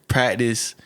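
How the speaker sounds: "practice" said as prat-tis, no C; southern pronunciation. Retold or imitated. Showing how southerners say CT words, "practice" without C. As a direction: drop the C in "practice". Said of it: "can't say C T words".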